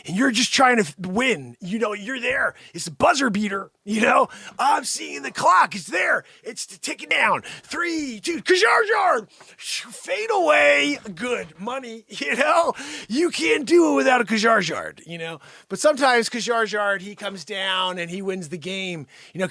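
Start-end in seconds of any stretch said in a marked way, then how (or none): 4.6-15.1 loud, high countdown, drawn out on the shot; excited play-by-play. Pretend. Vlogger reliving the last shot, high loud excited calls. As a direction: hype the buzzer beater as it falls.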